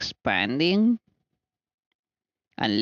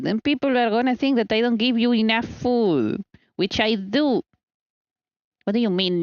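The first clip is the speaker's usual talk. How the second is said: pet talk; 4 semitones higher than usual. Pretend. Talking to pet.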